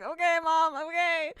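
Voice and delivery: placating retort. Retold or imitated. Daughter gives in to mom's order to call police, placating. Placating scolding mom in retelling.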